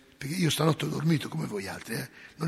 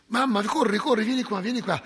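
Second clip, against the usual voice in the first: urgent call; 5 semitones higher, 4 dB louder than usual. Retold or imitated. Priest calling mother in alarm.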